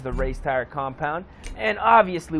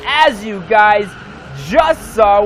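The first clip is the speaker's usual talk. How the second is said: announcer shout; 5 semitones higher, 8 dB louder than usual. Real, not acted. Announces the win to viewers.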